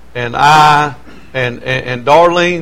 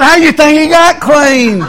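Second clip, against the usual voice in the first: laughing; 11 semitones higher, 3 dB louder than usual. Retold or imitated. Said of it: "I said".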